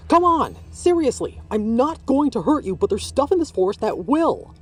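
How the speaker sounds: high, loud pleading shout; calling while running. A narrator's reading. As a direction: shout after the kid mid-chase. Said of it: "Patricia said to the kid as they ran".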